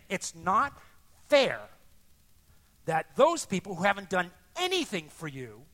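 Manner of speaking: loud, aggrieved protest with hard-hit words; angry complaint. Acted. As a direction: protest the unfairness, acting out the angry son. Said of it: "He's angry because this seems not fair".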